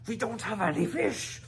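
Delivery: tight, high, strained through teeth; boy holding his temper; through gritted teeth. A narrator's reading. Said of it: "from between gritted teeth".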